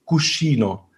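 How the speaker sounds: Cuscino said slowly in standard Italian; standard Italian word said clearly. Shown as a demonstration. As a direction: say Cuscino carefully, the proper Italian way. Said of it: "im Italienischen Cuscino".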